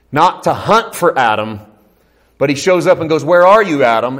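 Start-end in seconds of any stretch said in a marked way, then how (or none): 3.2-4.2 loud, high, urgent call; worried, raised-voice search call; parent calling lost child. Acted. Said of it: "in the same tone of voice".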